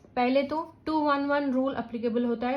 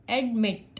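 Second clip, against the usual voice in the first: एडमिट with the final मिट pushed a little harder; stress on second syllable. Shown as a demonstration. Teacher showing learners the stressed syllable, एडमिट stressed on मिट. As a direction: say एडमिट, leaning slightly on मिट. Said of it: "ये मैंने थोड़ा जोर से बोला".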